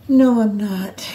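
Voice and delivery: a breathy whispered denial. Real, not acted. Mother denying to herself that she will cry, whispered. Holding back tears, estranged daughter.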